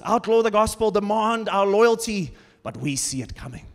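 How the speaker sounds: mock a conspiracy-minded doomsayer, tongue in cheek; lightly hammed-up alarmist reading of prophecy; sarcastic conspiracy theorist. Preacher parodies crystal ball readers of Revelation, sarcastic and tongue-in-cheek. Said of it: "This is gonna be a bit sarcastic".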